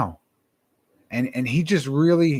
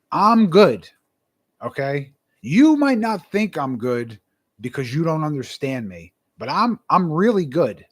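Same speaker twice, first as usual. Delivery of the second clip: higher, stressed insistence on each point; emphatic insistence; 4 semitones higher, 3 dB louder than usual. Retold or imitated. Telling the apologetic interviewer he is fine, emphatic insistence. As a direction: insist firmly, pitch jumping on key words. Acting out reassuring email reply, insisting.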